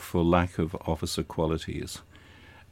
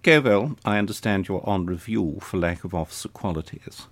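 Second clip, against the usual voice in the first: lightly imitated clipped Eton accent; a hint of an Etonian senior cadet dressing someone down. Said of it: "in a clipped Etonian accent".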